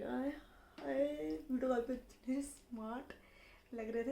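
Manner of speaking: long drawn-out dreamy sigh of a word; slow lovestruck coo; swooning. Retold or imitated. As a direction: melt as if he just smiled at you. Swooning over video call looks.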